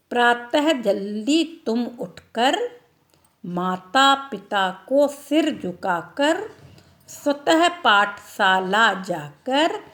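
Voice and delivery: slow rhythmic chant; poem recitation. Shown as a demonstration. Teacher reciting a visarga poem to the class. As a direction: recite it like a nursery rhyme. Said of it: "reciting a children's poem".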